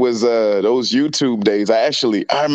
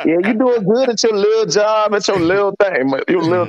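patronizing tease; 6 semitones higher than usual. Retold or imitated. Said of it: "You be like".

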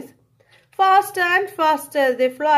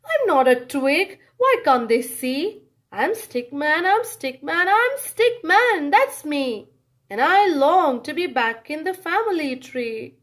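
Stickman protesting. Acted. Stickman insists to the world who he is.

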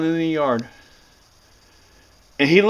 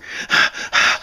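imitated panting. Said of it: "she was breathing like that".

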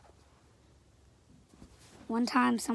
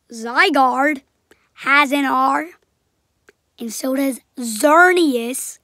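excited; 11 dB louder, slower than usual. Real, not acted. Excited theory point.

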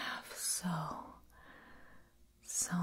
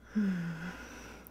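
long voiced sigh. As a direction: let out a drawn-out, humming sigh. Vampire soothing a victim.

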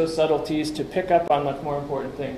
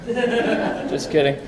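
laughing it off, higher and slow; 5 semitones higher, much slower than usual. Real, not acted. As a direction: chuckle through the words. Joke after saying France.

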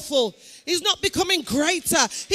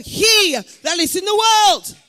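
preaching at full force; 3 semitones higher, 5 dB louder than usual. Real, not acted. Preaching climax.

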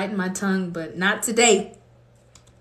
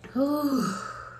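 softer, drawn-out exhale; soft sigh; 7 semitones higher, 4 dB quieter than usual. Real, not acted. Remembering the love of God, soft sigh. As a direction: breathe out a long sigh. Moved after the prayer.

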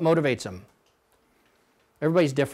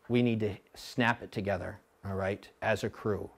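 calm constructive coaching; 2 semitones lower, 4 dB quieter than usual. Shown as a demonstration. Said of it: "Well, that doesn't do anything".

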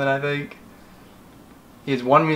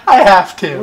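loud, high-pitched insistence; laughing protest; 8 semitones higher, 9 dB louder, slower than usual. Real, not acted. Child insisting to mom on posting it, loud protest. Protesting mom's ban on clip.

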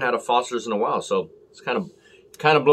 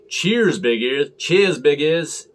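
mates calling out toast; 4 semitones higher, 4 dB louder, much slower than usual. Retold or imitated. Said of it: "to call out".

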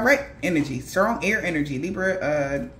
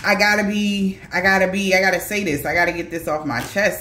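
acted need to unburden; urgent confession. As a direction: press each restart harder, then release. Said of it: "But it's like".

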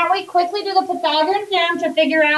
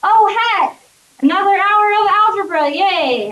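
happy voice; 3 semitones higher than usual. Shown as a demonstration. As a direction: sound delighted about doing algebra. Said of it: "I say it in a happy voice".

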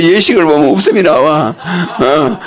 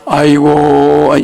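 a drawn-out teasing funeral cry; lightly mocked mourning; slow mock wail; 5 semitones lower, much slower than usual. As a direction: stretch the aigo like a grieving son, half joking. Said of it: "아들이 저걸 하고 있어요".

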